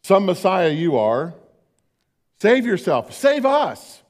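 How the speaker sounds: mocking curse. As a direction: sneer it at him like a bitter criminal. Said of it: "curses him".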